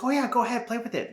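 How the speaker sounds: imitating the vendor lady in a high mock Asian accent. Vendor lady inviting him to play with it, mock Asian accent. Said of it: "excuse my terrible accent".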